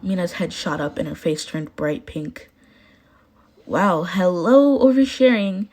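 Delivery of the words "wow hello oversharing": slow wow, then pitched-up oversharing; embarrassed. Acted. Mina embarrassed after oversharing to friends, flustered. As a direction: catch yourself blurting too much.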